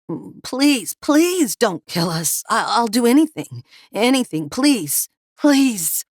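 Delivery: high, tearful, pleading; desperate begging. Acted. Captive begging the meth cooks not to kill them. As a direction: beg for your life, almost crying. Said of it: "Harvey begged".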